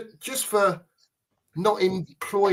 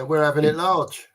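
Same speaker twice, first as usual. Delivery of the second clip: Cockney "We're having it large."; Cockney catchphrase. Shown as a demonstration. Mate asked to show how it sounds right, Cockney accent. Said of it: "like you, mate, with Cockney accent".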